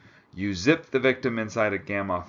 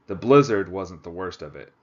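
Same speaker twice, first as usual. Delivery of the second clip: louder, hammed-up Texas cowboy accent; 7 dB louder than usual. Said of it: "That's my terrible Texas accent".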